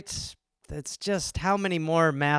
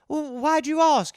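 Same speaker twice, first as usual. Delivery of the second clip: higher, careful mum voice; cagey mother; 9 semitones higher than usual. Retold or imitated. Mother stalls her four-year-old, cagey. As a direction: dodge the question gently.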